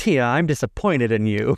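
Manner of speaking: stern, teacherly schoolmarm scolding tone. Retelling how a cast member scolded Tia: imitating a schoolmarm scolding. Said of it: "take the school marm sort of like".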